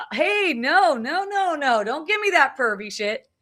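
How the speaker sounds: high, firm no, no, no; retold firm telling-off. Uncle's hands wander, she pushes back firmly. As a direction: pitch up and shut him down, mock stern. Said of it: "Like, like that".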